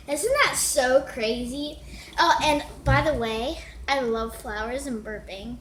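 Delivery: mocking ditzy like-filled voice; mock a ditzy sister, lots of like; girl mocking her sister Summer's valley talk; valley girl impression.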